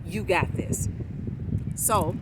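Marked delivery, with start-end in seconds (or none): 0.1-0.9 pep talk to self. Retold or imitated. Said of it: "I'm giving myself a pep talk".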